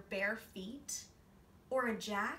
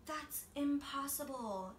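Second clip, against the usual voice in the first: put-on slow, higher child voice; lightly voiced boy; 6 semitones higher than usual. A narrator's reading. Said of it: "thought Spencer".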